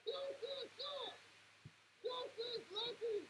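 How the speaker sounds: slow, drawn-out high jeer; mock them slowly, word by word; slow taunt. Real, not acted. Fan taunting the rival quarterback, slow jeer.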